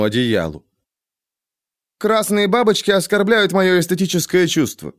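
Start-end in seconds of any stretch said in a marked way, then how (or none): 2.0-4.9 cold, dry voice of a hidden tree creature. A narrator's reading. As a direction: aloof and icy, looking down on everyone. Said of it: "холодно и сухо заявил голос".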